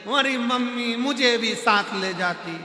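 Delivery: daughter-in-law wailing for show; mock wail. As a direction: cry out in a hammed-up wail. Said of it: "फिर रोई".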